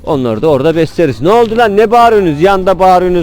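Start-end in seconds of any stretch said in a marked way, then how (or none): 1.2-3.2 scolding shout. Real, not acted. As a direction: yell at the squawking hens to get inside. Shouting at noisy muddy chickens.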